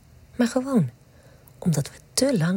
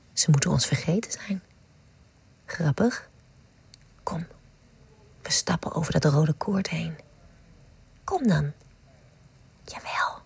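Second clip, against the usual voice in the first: intimate whisper. Acted. Whispering to a lover in front of the Nachtwacht, hushed and intimate. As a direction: murmur it like a secret to a lover.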